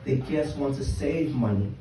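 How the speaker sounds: measured poem reading with pauses between phrases; spoken-word poem. Acted. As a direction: read your own poem to a live room, line by line. Reads own poem aloud.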